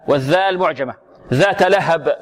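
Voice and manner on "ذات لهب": ذات لهب with a bounced final b; qalqala demo. Shown as a demonstration. Teacher models the verse ending for class, qalqala demo. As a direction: echo the ب closing ذات لهب. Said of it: "مقلقلة".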